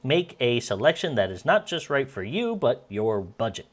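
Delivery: upbeat commercial announcer read. Acted. Voice actor practicing a sales ad, announcer style. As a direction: sell it like a TV pitchman.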